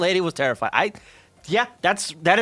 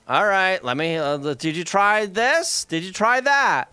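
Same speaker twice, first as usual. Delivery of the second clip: sigh, then a slow, strained walk-through; lightly voiced tech support forcing patience; long-suffering IT guy; slower than usual. Head of IT talking the CEO through fixes, long-suffering. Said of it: "I can just hear in this guy's voice".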